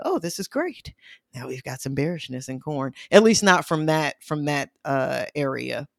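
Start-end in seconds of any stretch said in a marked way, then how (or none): 0.0-2.9 mock excitement. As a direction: voice a naive trader's false hope. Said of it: "misinterpret that as".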